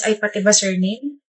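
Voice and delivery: mocking his reply; mimicking him. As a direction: parrot it back mockingly. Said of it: "mimicking repetition".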